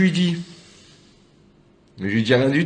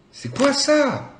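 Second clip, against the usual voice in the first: drawn-out bewilderment; 11 semitones higher, much slower than usual. Real, not acted. Stoned, bewildered again.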